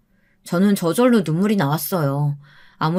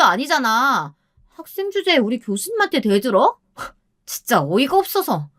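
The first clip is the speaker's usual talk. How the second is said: higher, jeering staff voice, lightly acted; mocking salon staff; 5 semitones higher than usual. Staff mocking the future mother-in-law, jeering. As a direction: sneer at the rude woman from above. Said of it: "마음껏 비웃었습니다".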